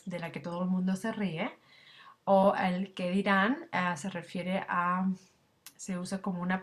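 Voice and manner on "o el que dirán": whisper. Shown as a demonstration. Gossip phrase in a lesson.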